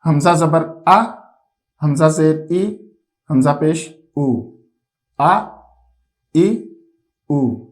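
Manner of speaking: short clear آ, ای, او each cut off without stretching; drilling vowel sounds. Shown as a demonstration. Teacher modelling the hamza drill for pupils, crisp syllables. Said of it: "یہ کس طرح پڑھے جاتے ہیں".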